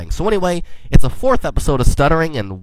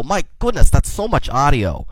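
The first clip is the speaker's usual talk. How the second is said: higher-pitched mock alarm on the first words; retold freak-out; 3 semitones higher than usual. Podcaster mimicking his reaction to long episodes, mildly freaked out. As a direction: play at freaking out, lightly. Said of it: "I'll freak out and go".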